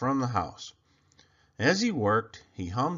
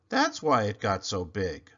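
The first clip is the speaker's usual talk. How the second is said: lower, matter-of-fact echo; 4 semitones lower than usual. Acted. Desmond echoes Clayton in a lower calm voice. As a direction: repeat it as calm agreement.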